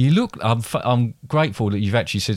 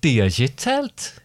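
Geordie accent; slower than usual. Shown as a demonstration. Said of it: "get into the character".

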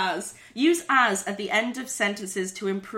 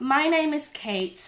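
drawn-out Australian sentence; Australian accent; 2 semitones higher, slower than usual. Acted. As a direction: put on an Australian accent, slowly. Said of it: "say a sentence in Australian".

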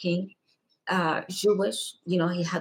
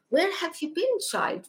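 put-on raised, gently pleading old priest; gentle elder voice; 11 semitones higher than usual. Pope asking a child where she has been, in a raised gentle voice. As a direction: ask it like a tender old holy man. Pope greets her in vision.

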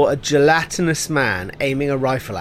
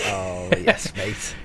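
put-on Scouse accent; 7 semitones lower, 7 dB quieter, much slower than usual. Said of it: "bad Scouse accent".

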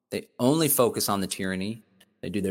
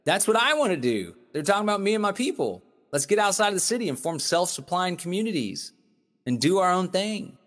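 higher, fast eager gush; excited; 5 semitones higher than usual. Retold or imitated. Retelling his eager reaction to the article, higher excited gush. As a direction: gush with excitement about the idea. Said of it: "I read that and was like".

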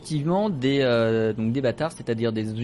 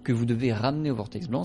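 game master lays out the quest in a measured narrator voice; game master narration. Acted. Game master briefs the players on their mission, measured narrator voice. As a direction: set the scene for the players, steady and clear.

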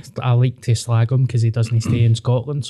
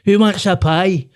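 slow mock uncle rant ending in a cheery offer; lightly voiced Rangers uncle, slow; uncle, slow and drawn out; slower than usual. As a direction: drag out the insult, then perk up for the pie. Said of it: "he was like".

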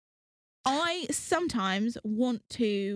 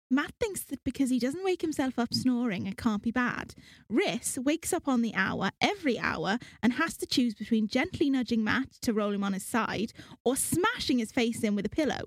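put-on Welsh accent. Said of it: "a Welsh accent from someone that spent too many hours watching Gavin and Stacey".

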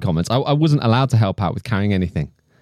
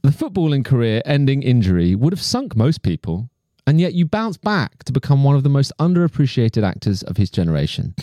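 reading a letter aloud. Acted. Reads out fan letter.

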